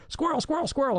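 high-pitched excited calls of "squirrel"; an excited French friend yelling "squirrel"; excited squirrel cries. Retold or imitated. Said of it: "nearly has apoplexy".

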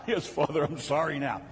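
meek penitent. Acted. Meek penitent answering the shouting.

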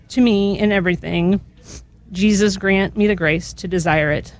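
measured, reverent litany reading; solemn litany with falling responses; recited litany prayer. Real, not acted. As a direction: pray each petition evenly, letting the response fall away.

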